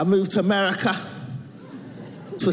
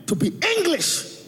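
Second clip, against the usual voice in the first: put-on higher, Nigerian-accented mother; mother's Nigerian accent; 7 semitones higher than usual. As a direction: imitate mum's emphatic Nigerian accent. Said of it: "She's like".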